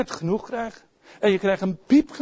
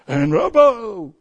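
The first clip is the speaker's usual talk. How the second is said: mock tough guy; 5 semitones higher, 5 dB louder, much slower than usual. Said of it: "niet op te pompen".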